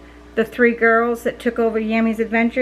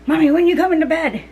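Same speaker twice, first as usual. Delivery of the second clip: put-on whiny kid voice; 6 semitones higher, 4 dB louder, faster than usual. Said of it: "Obi just came running out like".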